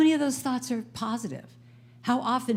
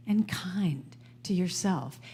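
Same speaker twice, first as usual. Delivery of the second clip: whisper; 5 dB quieter, slower than usual. Real, not acted. Gentle self-kindness advice.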